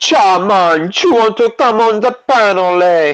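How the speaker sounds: put-on Jamaican accent. Inviting someone to come on the panel, in an attempted jamaican accent. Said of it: "That's my best Jamaican".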